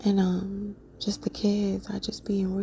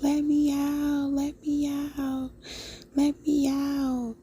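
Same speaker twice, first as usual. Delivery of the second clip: high little child's voice, mock screaming; 5 semitones higher, slower than usual. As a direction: imitate a tiny voice crying to be let out. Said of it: "little bitty voice screaming to the top of their lungs".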